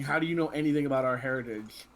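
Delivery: mildly angry challenge, firmly voiced. Jason looks up at Luke and demands an answer, mildly angry. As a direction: demand it with a touch of anger. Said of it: "and angrily".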